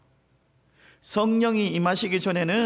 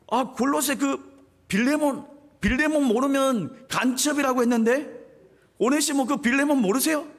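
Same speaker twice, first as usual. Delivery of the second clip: higher, louder eager Paul voice; excited Paul; 8 semitones higher, 3 dB louder than usual. Acted. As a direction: play Paul thrilled to know Philemon. 바울이 반갑게 묻는 장면. (신나서 묻는 바울 목소리)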